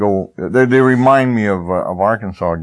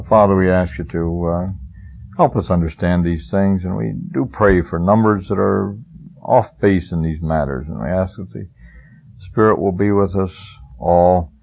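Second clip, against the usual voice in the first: prayer. Acted. Closing prayer.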